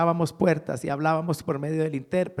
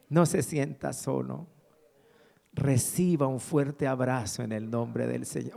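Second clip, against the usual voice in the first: retold solemn consolation; 2 semitones lower than usual. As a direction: reassure a lonely colleague, word by word. Repeats pastor's consoling message. (consuelo pausado y solemne)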